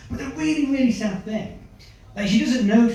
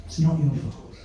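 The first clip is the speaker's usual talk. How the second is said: mum reassuring; 5 semitones lower, 5 dB quieter than usual. Retold or imitated. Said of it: "She was like".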